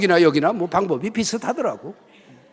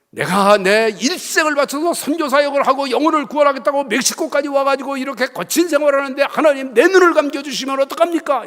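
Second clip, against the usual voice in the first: raised, pleading complaint to God; lament to God; 5 semitones higher, 3 dB louder than usual. Retold or imitated. Missionary brother pleading with God, going blind: raised lament. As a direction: cry out a pleading protest to heaven.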